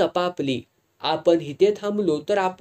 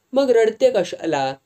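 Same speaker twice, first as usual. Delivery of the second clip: irritated; 6 semitones higher, 4 dB louder than usual. A narrator's reading. Damu argues with Champa.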